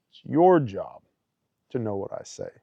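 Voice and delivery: firm repeat with heavy stress on "your"; God's firm reminder. Retold or imitated. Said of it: "The father was like".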